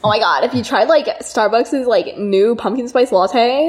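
put-on slow valley girl fry; creaky, dragged-out valley girl; vocal fry. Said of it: "so much fry".

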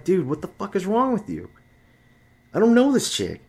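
high, strained mock outrage; high-pitched exasperated retort. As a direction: throw your hands up at the friend. Exasperated at friend.

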